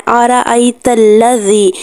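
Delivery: آرأیت with a thick, heavy ra, slowly. Shown as a demonstration. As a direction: say آرأیت with a full heavy ra sound. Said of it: "را کی آواز کو موٹا ادا کرنا ہے". (را موٹی آواز کے ساتھ آرأیت)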